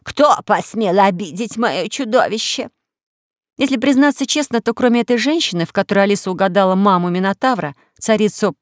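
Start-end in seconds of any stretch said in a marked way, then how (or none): 0.0-2.7 slow, outraged matron; indignant queen mother. Acted. Pasiphae to the crowd, slow and outraged. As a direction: demand it like a furious mother.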